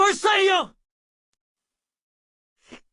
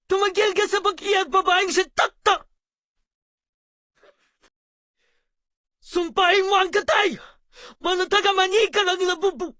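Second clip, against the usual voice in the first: scolding parent. Acted. Parent scolding crying child.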